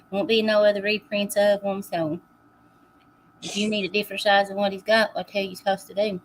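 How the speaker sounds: talking with a mouthful of taffy; words around a sticky chew; chewing sticky toffee. Real, not acted. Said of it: "Sorry, I'm eating my Florida taffy".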